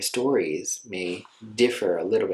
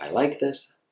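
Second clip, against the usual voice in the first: "I like this" with a higher, rising lift; lifted, upbeat "I like this"; approving tone; 4 semitones higher, slower than usual. Shown as a demonstration. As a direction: say "I like this" brightly, pleased. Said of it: "So we talked about".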